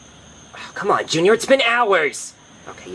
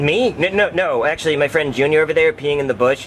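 usual speaking voice

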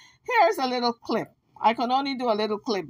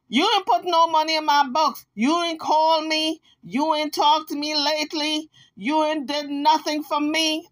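mock whine, higher pitch; whiny broken record; 6 semitones higher than usual. Imitating the Kansas nagging Jaguar in a high whiny voice. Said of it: "another broken record".

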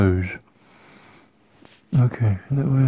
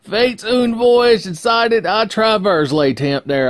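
much higher, slow, louder hammed-up fake French; mock French; 11 semitones higher, 6 dB louder, slower than usual. Showing off his French, hammed-up fake French accent. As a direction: ham up a pompous French accent. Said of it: "here's my French".

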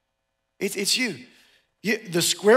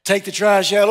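louder parent barking an order; parent command; 6 dB louder than usual. Retold or imitated. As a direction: order the teenager to take out the trash.

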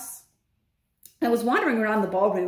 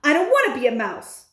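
louder, higher indignant shout; shouting in protest; 5 semitones higher, 5 dB louder than usual. Acted. Bruno jumping up and down, shouting in protest. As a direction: protest loudly, pitched up. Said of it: "Bruno shouted".

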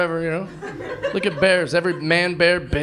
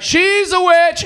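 high, drawn-out shout; slow, loud hammed-up accusation; mock witch-hunt cry; 12 semitones higher, 8 dB louder, much slower than usual. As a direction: cry it out to rouse a mob. Acted accusation to a mob.

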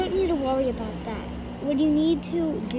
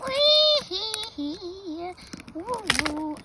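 giggly wee; 5 semitones higher, much slower than usual. Acted. Skating on ice, playing.

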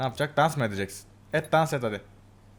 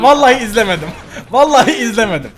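laughing; 2 semitones higher, 5 dB louder than usual. Real, not acted. Swears, laughing.

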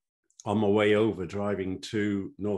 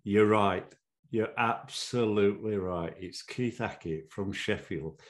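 mic announcer. Retold or imitated. Announcer on the mic introducing the referee to the crowd, mildly shouted. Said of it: "the guy on the mic shouts".

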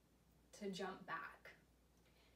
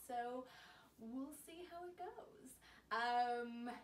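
heavy breathing; 3 semitones higher, slower than usual. Real, not acted. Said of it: "excuse my breathing".

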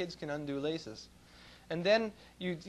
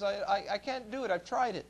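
put-on whiny child; 4 semitones higher than usual. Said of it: "he says".

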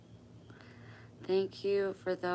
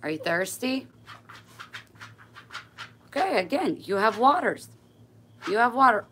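much higher, louder sing-song; talking to the dog; 8 semitones higher, 10 dB louder than usual. Real, not acted. Owner cooing at her dog about water, high and loud.

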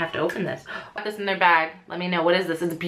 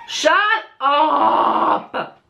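surprised; 5 semitones higher, 4 dB louder than usual. Real, not acted. Gasps at a gift in unboxing.

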